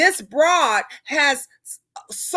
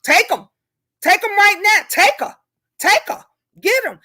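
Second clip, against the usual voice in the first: mock careless; 4 semitones higher than usual. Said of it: "there's folks on here that'll say".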